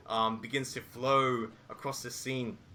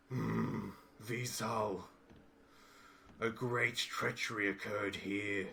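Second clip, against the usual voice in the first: grave ogre warrior; 4 semitones lower than usual. Acted. Ogre hunter tells his clan brother of the massacre, low and grave. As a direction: murmur the news of slaughter darkly.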